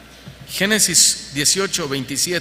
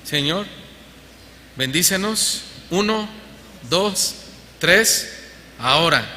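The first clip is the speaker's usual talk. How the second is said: mock impatience. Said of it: "¿le cuentan hasta tres a Dios?".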